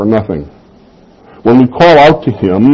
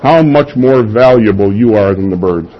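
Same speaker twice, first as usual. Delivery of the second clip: "How much more valuable" stated firmly, no questioning lift; exclamation, not question. Acted. Preacher repeating the verse to correct the reading, emphatic statement. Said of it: "it's an exclamation".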